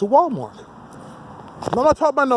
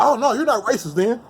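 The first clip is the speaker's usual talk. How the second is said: higher, mock-eager agreement; sarcastic agreement; 5 semitones higher than usual. Imagined critic caving in, sarcastic and higher. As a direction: fake a sudden change of heart. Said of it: "You'll be like".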